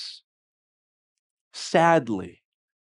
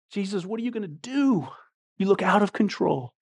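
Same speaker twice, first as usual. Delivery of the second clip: softer, troubled question; hushed doubt; 5 semitones higher, 6 dB quieter than usual. Acted. Doubting believer to Jesus as chaos comes, hushed. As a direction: drop the volume, keep the worry in it.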